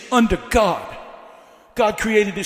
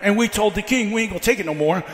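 rhythmic, driving sermon delivery; building preaching. Real, not acted. Preacher telling how a country stood up to the king, building preaching. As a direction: build the history into a rallying cry.

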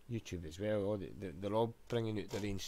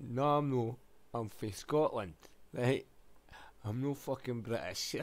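retold raised protest; 4 semitones higher, 5 dB louder than usual. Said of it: "And I went".

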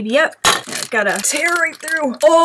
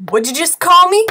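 lightly voiced toy taking offence, higher and louder; 6 semitones higher, 5 dB louder than usual. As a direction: play a touchy little figurine answering back. Voicing toy arguing with another.

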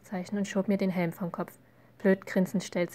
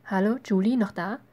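louder, lilting call; raised-voice attention check; 5 dB louder than usual. A narrator's reading. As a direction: call to someone who has drifted off. Brother snaps sister out of daydream.

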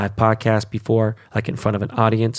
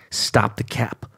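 whispered aside; slower than usual. Acted. Ranting podcaster whispers a jab at Shiba fans. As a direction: drop to a breathy whisper for the jab. Mocking aside mid-rant.

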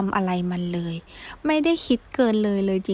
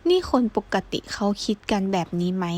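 ordinary delivery, nothing marked

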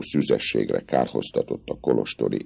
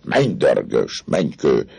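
mocking, amused; 3 semitones higher, 4 dB louder than usual. Captain mocking the girl's wish, amused. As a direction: scoff through a grin. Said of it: "harsányan felkacagott".

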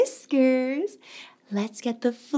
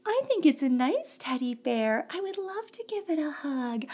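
tender; 6 dB quieter, faster than usual. Acted. Tender about teddy bear.

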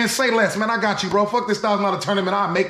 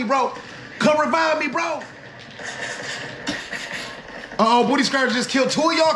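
panicking gamer; 6 semitones higher, 5 dB quieter than usual. Acted. Frantic gamer in last stand.

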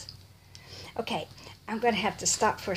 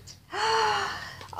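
high gasp of delight; sharp intake at a lovely surprise; 12 semitones higher than usual. Real, not acted. Opening a surprise gift.

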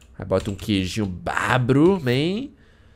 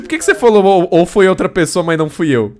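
loud accusing; 6 semitones higher, 8 dB louder than usual. Real, not acted. Accusing teammate in heated argument.

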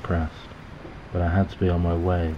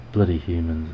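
mild grumpy scowl, a little louder; 5 dB louder than usual. Acted. Snubbed pigeon grumbles at the human, scowling. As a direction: grumble it with a light sneer. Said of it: "The pigeon scowled at me".

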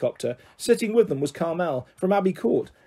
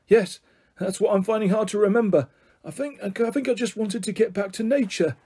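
lightly voiced, higher-pitched old eccentric; muddled grandpa; 5 semitones higher than usual. Grandpa tries remembering why he came, mildly muddled. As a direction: search your memory in a raised pitch.

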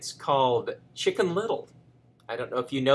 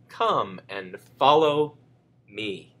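sweet coaxing; 5 semitones lower, much slower than usual. Acted. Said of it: "said Foxy Woxy sweetly".

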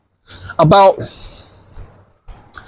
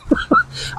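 high squeaky laugh; 8 dB quieter than usual. Real, not acted. Laughing at ladies.

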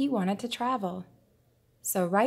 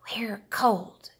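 complaining turtles; 2 semitones higher than usual. Acted. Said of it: "complained the turtles".

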